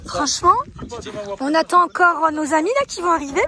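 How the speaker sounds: bubbly, amazed chatter; excited. Real, not acted. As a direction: marvel that the place is empty. Thrilled to have place alone.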